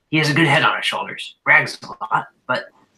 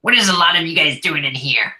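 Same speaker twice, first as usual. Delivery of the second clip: nasally whiny voice; 3 semitones higher, faster than usual. Acted. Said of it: "a nasally, whiny voice".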